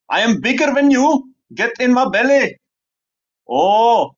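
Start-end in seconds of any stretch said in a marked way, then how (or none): 0.1-2.6 mock Scottish accent, pitched higher. Scotsman threatening to eat someone smaller, in an attempted Scottish accent. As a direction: have a go at a big Scottish eater's brag. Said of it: "Obviously, my Scottish accent".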